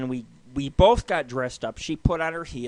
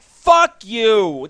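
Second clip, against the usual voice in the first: loud, higher angry outburst; retold yelling; 5 semitones higher, 8 dB louder than usual. Customer making a scene at the lounge, retold yelling. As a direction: yell it at the staff in retelling. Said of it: "I start yelling".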